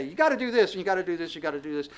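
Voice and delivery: mock drill-like orders, tapering off; half-hearted barking of rules; barked orders. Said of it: "bark out orders and say".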